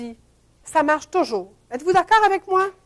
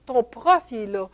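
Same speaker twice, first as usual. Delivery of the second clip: hushed little nagging voice; whispered inner voice; 5 semitones lower, 5 dB quieter than usual. Retold or imitated. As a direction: quietly mimic the doubting inner voice. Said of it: "il y avait une maudite qui me disait".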